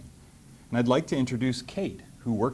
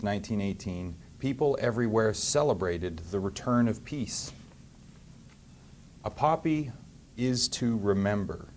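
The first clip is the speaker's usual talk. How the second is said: put-on reading to children. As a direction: read the picture book gently to the class. Mayor reads picture book aloud.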